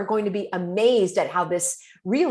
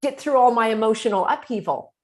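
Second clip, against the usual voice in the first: indignant upset person; 5 semitones higher, 4 dB louder than usual. Retold or imitated. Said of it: "Oh my gosh, I lost my phone".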